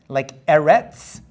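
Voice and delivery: "eretz" said slowly and loudly, with the final ts drawn out; teacher modelling "eretz" slowly; slow example word. Shown as a demonstration. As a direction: spell out "eretz" slowly, landing on the ts. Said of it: "At the end of a word".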